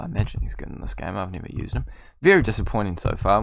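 usual speaking voice

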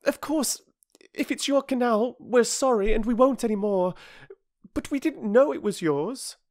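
high, anxious, apologetic schoolgirl; pleading girl, out of breath; breathless girl. A narrator's reading. Bobby begging the bargee not to be cross, high and breathless.

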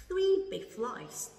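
"Three big flies flew in the pie" at half speed, each word separate; very slow model reading. Shown as a demonstration. Teacher reading very slowly for students to repeat. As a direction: stretch every word slowly. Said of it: "Cô đọc lại ha".

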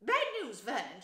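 high, loud, agitated aunt; angry and worried. A narrator's reading. Wife bringing bad news to her husband, agitated. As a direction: break the bad news in alarm. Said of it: "looking both angry and worried".

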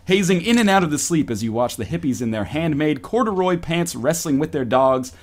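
lightly seductive narration; sultry story reading. Acted. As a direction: read it like an erotic novel. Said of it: "my best possible Fifty Shades of Grey voice".

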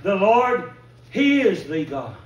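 the cry again, loud and slow. Retold or imitated. Preacher repeats the people's cry, loud and slow. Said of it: "they cried out".

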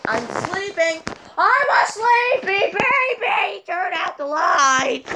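put-on high, slow whiny baby voice; high, slow mock baby sing-song; sleepy baby voice. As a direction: wail it like a cranky toddler. I love that song.

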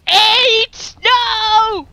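high, drawn-out cries; high-pitched oh-no alarm; alarmed calling. Real, not acted. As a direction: call out in sudden dismay. The eight gets away.

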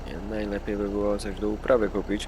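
burp slipping out mid-sentence; words broken by a burp; talking while burping. Real, not acted. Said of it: "beknąłem se".

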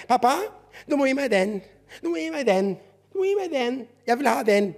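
put-on high, insistent child's begging. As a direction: nag like a child who wants it.

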